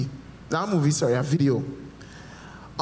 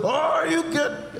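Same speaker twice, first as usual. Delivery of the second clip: high, slow mock-sweet nurse voice; 11 semitones higher, much slower than usual. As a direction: coo it with fake concern. Nurse mock-checking old man.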